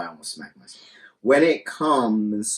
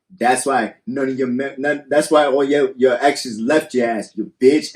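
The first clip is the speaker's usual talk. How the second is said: mildly heated mock taunt, building louder; acted man's insult; 3 semitones higher, 6 dB louder than usual. Host voices a man insulting his girlfriend, mock angry. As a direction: hurl a pretend insult, getting louder. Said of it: "and then he's like".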